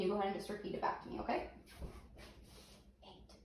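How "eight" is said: whispering. Shown as a demonstration. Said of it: "I'm gonna whisper a word to you".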